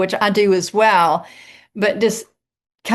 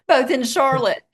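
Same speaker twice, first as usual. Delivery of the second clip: laughing; 5 semitones higher than usual. Real, not acted. Laughs at the coincidence.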